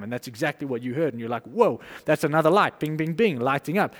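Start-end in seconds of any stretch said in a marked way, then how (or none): 1.4-3.9 excited. Retold or imitated. Confirmation lights up, excited.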